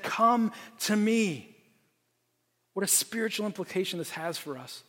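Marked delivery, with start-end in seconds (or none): 0.0-1.6 slow, drawn-out beckoning call. Retold or imitated. Rescuer calling father and son from the side, slow call. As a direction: beckon them out of the riptide. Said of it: "And he said".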